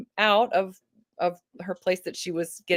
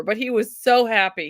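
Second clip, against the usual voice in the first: normal talking voice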